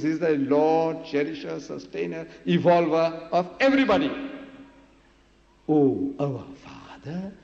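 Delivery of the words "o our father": slow, drawn-out invocation; prayer. Retold or imitated. Jesus teaches his people to pray, slow intoned prayer. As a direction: intone it slowly, stretching "Father". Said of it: "Pray like this".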